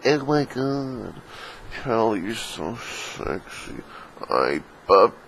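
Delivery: soft, very slow, drawn-out mock seduction; mock sexy. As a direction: purr it slowly as a hammed-up come-on. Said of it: "purposely, you know, show off their sex appeal".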